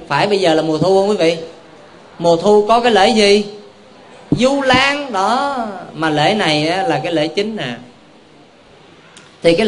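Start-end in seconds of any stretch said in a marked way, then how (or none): 4.3-5.6 drawn out. Real, not acted. Kéo dài tên lễ.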